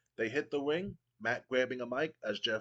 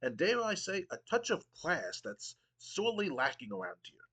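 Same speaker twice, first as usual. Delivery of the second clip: a hint of a haughty British commissioner, pitched higher; pompous Regal; 6 semitones higher than usual. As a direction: sneer down at the crowd with mock refinement. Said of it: "Regal goes".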